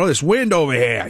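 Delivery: imitated thick Boston neighbor; Boston accent. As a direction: lightly put on a broad Boston accent. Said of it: "he's got the, the biggest Boston accent".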